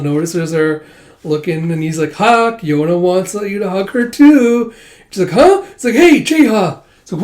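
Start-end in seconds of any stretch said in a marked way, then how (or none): 2.1-4.7 loud, high, drawn-out tattling; teasing call-out. Retold or imitated. Jeha calls out to Huck, teasing. 5.3-5.6 very high, loud yelp; flustered surprise. Retold or imitated. Yona caught off guard. 5.9-6.8 high, loud objection; flustered protest. Retold or imitated. Yona protests at being exposed.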